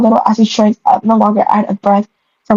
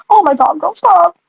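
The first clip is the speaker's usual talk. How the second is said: excited squeal; 7 semitones higher than usual. Real, not acted. Reader reacts excitedly.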